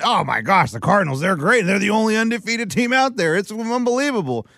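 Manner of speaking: mock gushing. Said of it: "you wanna go mid-season?".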